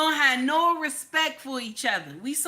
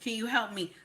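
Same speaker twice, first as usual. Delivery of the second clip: soft polite request; 6 dB quieter than usual. Retold or imitated. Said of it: "When I see the white man".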